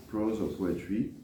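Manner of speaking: ordinary talk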